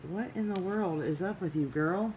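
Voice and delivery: baffled affection for a pet; puzzled at cat. Real, not acted. Talking to her cat.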